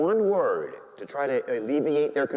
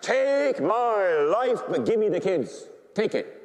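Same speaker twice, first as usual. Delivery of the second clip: long-drawn, higher plea, almost chanted; crying out to God; 7 semitones higher than usual. Retold or imitated. Priest on his deathbed offers God his life, crying out. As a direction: stretch the words out in a high, urgent offering.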